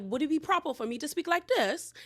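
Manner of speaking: lightly imitated proper British English; imitated British accent. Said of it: "Sutton breaks out in a British accent".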